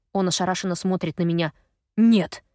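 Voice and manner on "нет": loud shocked no; loud denial. A narrator's reading. Gaz refuses the truth, loud.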